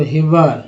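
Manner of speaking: "हिवर" ending in a clear "ar". Shown as a demonstration. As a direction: say "हिवर" as HI-var, sounding the final r. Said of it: "ईयर को आर बोलते हैं तो". ("हिवर" के अंत में साफ़ "अर")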